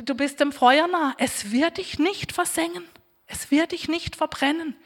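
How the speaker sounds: ordinary delivery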